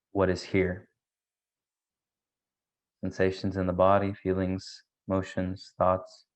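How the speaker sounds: measured meditation guide with long pauses; unhurried meditation leading, pausing between thoughts; guided meditation. Real, not acted. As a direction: guide listeners gently inward, leaving space between phrases.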